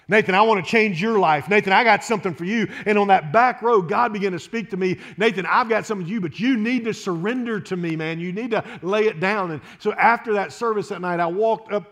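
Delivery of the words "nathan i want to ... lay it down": voice of God. Retold or imitated. God's voice in his story.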